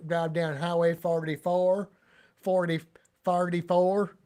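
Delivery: loud "forty-four" said as "farty-far"; Saint Louis pronunciation. Shown as a demonstration. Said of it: "we do that in Saint Louis".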